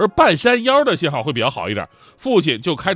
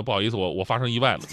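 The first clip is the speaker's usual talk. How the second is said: sheepish quiet; 6 semitones lower, 6 dB quieter, faster than usual. Retold or imitated. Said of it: "我就说那什么".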